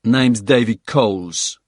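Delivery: clipped South African soldier voice; South African accent. Acted. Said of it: "in a distinctive South African accent".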